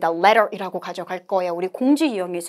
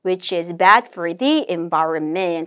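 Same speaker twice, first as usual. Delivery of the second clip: slow, measured English recitation; model read-aloud; 4 semitones lower, much slower than usual. Shown as a demonstration. Teacher models the conversation summary, slow deliberate reading. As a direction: read it out slowly, phrase by phrase.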